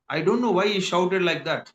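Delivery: slow, clear teacher model; slow model reading. Shown as a demonstration. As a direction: spell it out slowly for the class. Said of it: "teacher model line". (నెమ్మదిగా చదవడం)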